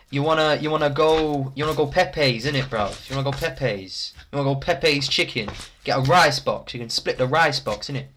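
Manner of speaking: London roadman slang patter; roadman accent. Pretend. Streamer asking a slime on a date, roadman accent. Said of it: "speaking to fake things in a roadman accent".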